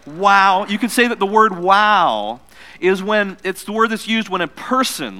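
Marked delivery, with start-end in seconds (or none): 0.1-0.6 leading wow. Shown as a demonstration. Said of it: "say it again with me".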